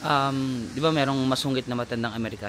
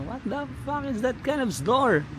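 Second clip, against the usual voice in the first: mock angry shout; 10 semitones higher, slower than usual. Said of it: "parang sumisigaw talaga siya".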